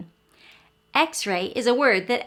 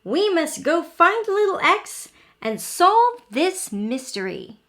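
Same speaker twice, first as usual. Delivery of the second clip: determined small letter; 6 semitones higher, 3 dB louder than usual. A narrator's reading. Letter character rallying others.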